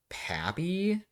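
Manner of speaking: a high, breathless whispered "Pappy?"; shocked whisper. Real, not acted. Reader stunned by the fanfic's father reveal, whispering in disbelief.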